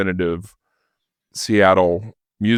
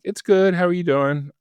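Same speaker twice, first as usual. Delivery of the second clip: chirpy Tina on the phone; 10 semitones higher than usual. Retold or imitated.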